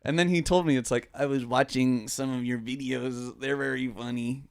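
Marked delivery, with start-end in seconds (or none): 1.1-4.4 imitating Harrison. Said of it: "making him sound like R F K Junior".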